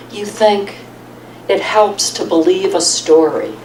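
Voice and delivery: measured reading with pauses between phrases; poem read aloud to an audience; poetry reading. Acted. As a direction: let each line land, then pause. Reads own poem to audience.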